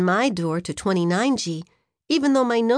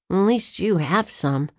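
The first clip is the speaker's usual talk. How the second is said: slow, lower, grumpy; grumbling; 3 semitones lower than usual. Acted. Freddy grumbling to Maria about boots, mild grumble. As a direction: sulk about having no boots. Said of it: "I grumbled".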